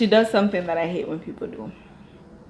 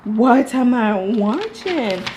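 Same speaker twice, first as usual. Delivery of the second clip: disbelief; 3 semitones higher, 5 dB louder, slower than usual. Real, not acted. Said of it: "I was like".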